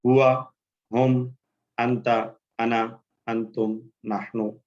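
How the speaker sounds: slow, even chant of the pronoun list; measured classroom chant; drill recitation. Shown as a demonstration. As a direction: recite each word for the class to repeat. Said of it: "दोहरा लीजिए मेरे साथ".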